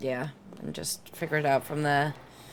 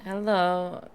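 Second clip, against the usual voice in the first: ordinary talk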